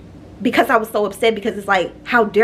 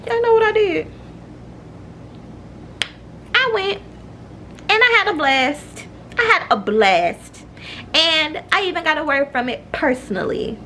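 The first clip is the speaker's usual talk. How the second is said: excited reveal; 9 semitones higher than usual. Real, not acted. Excited reveal of church visit.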